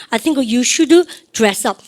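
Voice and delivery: very slow, each word spaced for the class; drawn out so students can repeat after; very slow model phrase. Shown as a demonstration. Teacher modelling for class repetition, very slow. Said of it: "시작".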